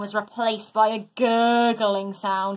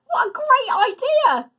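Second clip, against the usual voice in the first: much higher, louder burst of joy; excited exclamation; 13 semitones higher, 6 dB louder than usual. A narrator's reading. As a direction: gush with sudden delight. Mum beaming with excitement.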